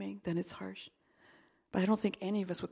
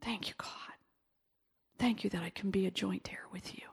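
whispered thanks. Real, not acted. Soft thanksgiving after the prayer.

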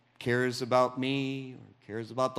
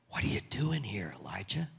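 softer and hushed, a gentle question; soft second asking; 3 semitones lower, 6 dB quieter than usual. Shown as a demonstration. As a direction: ask it softly, almost a whisper. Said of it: "The second one was a whisper".

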